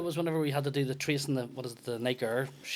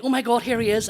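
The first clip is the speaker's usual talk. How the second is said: squealing, higher and louder fan voice; excited fan; 8 semitones higher, 7 dB louder than usual. Retold or imitated. Sister spots the comedian on stage, excited squeal. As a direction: gush like a starstruck fan. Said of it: "she was like".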